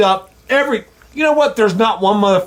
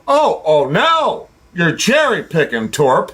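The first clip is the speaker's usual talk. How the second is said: mocking critics; 4 semitones lower than usual. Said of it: "call me out and say".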